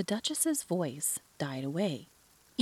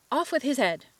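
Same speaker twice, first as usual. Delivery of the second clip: higher, louder furious shout; 8 semitones higher, 6 dB louder than usual. A narrator's reading. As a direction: scream the sentence out.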